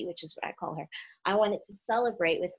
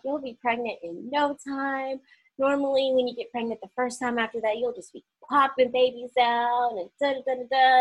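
higher, lively retold doctor's patter; breezy doctor's reassurance; 5 semitones higher than usual. Doctor reassuring patient after loss, breezily upbeat. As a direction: rattle it off upbeat, imitating a doctor.

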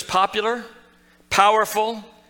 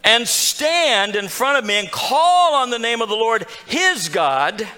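higher and louder, slowing as he rants; insulted; 5 semitones higher, 4 dB louder than usual. Retold or imitated. Preacher voicing Naaman's wounded pride, loud and indignant. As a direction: spell out the show he was owed, offended. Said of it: "He's insulted".

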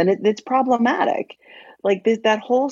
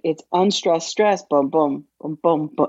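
"it's unstressed, stress, boom, boom" beaten out like a heartbeat; iambic heartbeat; 2 semitones lower than usual. Shown as a demonstration. Teacher demonstrating the iambic beat to the podcast hosts, in rhythmic boom-boom stress. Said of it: "in iambic".

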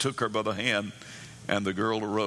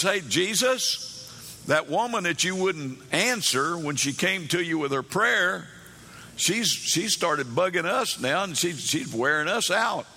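higher-pitched fed-up griping; acted complaining; 5 semitones higher than usual. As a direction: voice disciples griping to their master. Disciples voiced complaining to Jesus.

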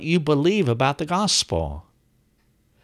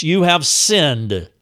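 "You have sinned" said slowly, with weight; stress on sinned; 3 semitones higher, slower than usual. Shown as a demonstration. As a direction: land firmly on "sinned", stretching the phrase. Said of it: "place the accent mark on the fact".

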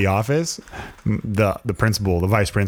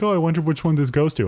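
innocent wonder; 6 semitones higher than usual. Retold or imitated. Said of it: "I'm like".

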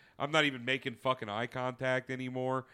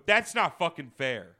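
indignant retort; 2 semitones higher, 6 dB louder than usual. Retold or imitated. Retold indignant protest.

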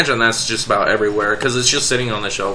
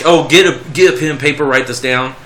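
mock Southern accent; 2 semitones higher than usual. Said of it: "he uses a Southern accent".

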